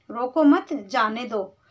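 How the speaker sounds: रोको मत together, then जाने दो falling away; pause after मत. Shown as a demonstration. Someone saying to let them go, pause after मत. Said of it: "रोको मत के बाद अगर हम कॉमा".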